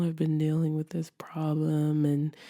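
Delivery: whispered, almost no voice; hushed confession. Retold or imitated. Friend admits his struggle, whispered. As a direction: breathe it out as a secret admission.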